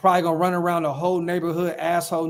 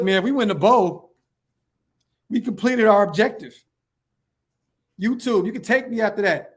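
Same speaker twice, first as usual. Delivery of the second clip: higher and louder, hyped about a Super Bowl win; euphoric excitement; 4 semitones higher, 3 dB louder than usual. Real, not acted. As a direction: shout it like your team just won it all.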